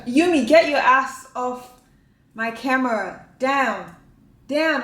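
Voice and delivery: loud exasperated command; scolding a pet. Real, not acted. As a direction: order the pet off, firm and loud.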